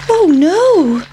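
high squeaky worried cry; a small frightened pancake gasps; pancake's voice. A narrator's reading. Pancake frightened of being eaten, high squeaky. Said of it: "thought the pancake".

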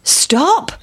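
the sheep calling out; lightly voiced sheep. A narrator's reading. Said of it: "said the sheep".

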